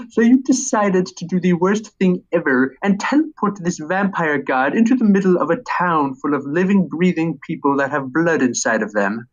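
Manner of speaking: lightly voiced nerdy comic shop owner; a hint of a smug, nasal know-it-all; Comic Book Guy. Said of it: "get Comic Book Guy's voice down".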